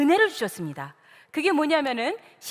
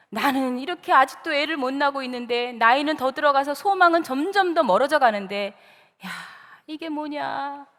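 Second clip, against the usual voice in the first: mildly weary lament over one's life. Acted. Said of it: "자신의 생을 한탄하고". (신세를 가볍게 한탄하듯)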